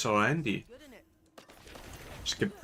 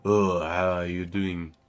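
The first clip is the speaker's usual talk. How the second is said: mock French accent; 3 dB louder than usual. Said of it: "this is stereotypical French".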